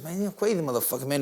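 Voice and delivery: quick high-pitched champ impression; Mike Tyson. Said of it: "And then, fuck, he says".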